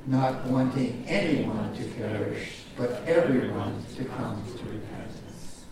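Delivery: slow, deliberate recitation with the congregation; measured call-and-response reading; slow unison recital. Shown as a demonstration. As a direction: lead them through it word by word. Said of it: "Would you say that with me?".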